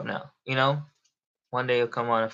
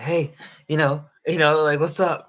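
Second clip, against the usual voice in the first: higher, upbeat hello to a newcomer; eager greeting; 4 semitones higher, 4 dB louder than usual. Retold or imitated. Streamer greets the first viewer to come in, eager greeting. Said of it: "one person like".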